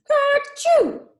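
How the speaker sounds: high loud cartoon sneeze; big sneeze. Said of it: "Peter sneezed".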